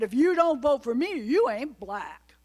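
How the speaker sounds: a deliberately bad imitation of Biden's accent; bad Joe Biden accent. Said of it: "In a very bad accent".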